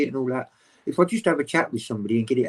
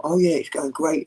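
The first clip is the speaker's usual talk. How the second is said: retold upbeat enthusiasm, a bit higher; animated; 4 semitones higher than usual. Telling host how he talks up his channel to doctors, animated. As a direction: act out being chuffed, lightly. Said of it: "I'm all animated".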